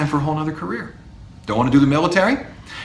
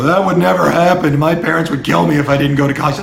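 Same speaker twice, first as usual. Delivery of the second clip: whiny student; 2 semitones higher, 5 dB louder, faster than usual. Retold or imitated. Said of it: "don't look at me and go".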